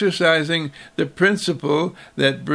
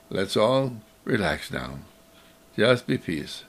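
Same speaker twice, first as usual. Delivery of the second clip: put-on softer, gentle calming words to a child; soothing mother; 5 semitones lower, 5 dB quieter than usual. Mother calming her troubled child, soft and soothing. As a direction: ease the child down softly.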